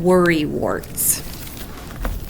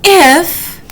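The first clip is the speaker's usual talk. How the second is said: worried; 3 semitones higher than usual. Acted. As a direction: build panic toward the last question. Wombat's worried what-ifs.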